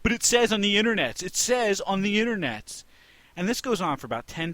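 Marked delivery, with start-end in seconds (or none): 0.0-2.8 crowd protest. Retold or imitated. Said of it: "And everyone's like".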